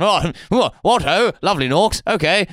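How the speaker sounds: lightly voiced bumbling posh politician; a hint of blustering Tory charm; Boris Johnson. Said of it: "as if Boris Johnson wouldn't have gone".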